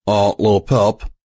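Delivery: timid character voice, gently hesitant. A narrator's reading. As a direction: ask for attention timidly. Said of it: "Calamity said timidly".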